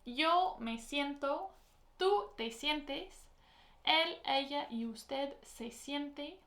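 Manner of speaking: slow conjugation drill. Shown as a demonstration. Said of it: "So our conjugations are".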